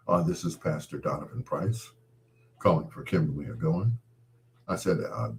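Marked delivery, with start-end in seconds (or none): 0.1-3.9 pastor mode. Retold or imitated. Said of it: "full pastor mode".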